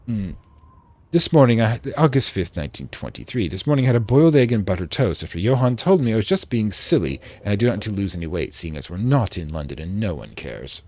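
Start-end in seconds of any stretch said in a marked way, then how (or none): 1.1-8.5 put-on light British accent for a diary entry; reading a diary in a mild British accent; vaguely British accent. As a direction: read it like a 1920s English diarist. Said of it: "I'm doing a vaguely British accent".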